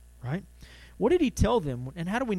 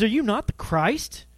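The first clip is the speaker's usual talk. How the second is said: mock railing; 6 semitones higher, 4 dB louder than usual. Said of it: "He's yelling".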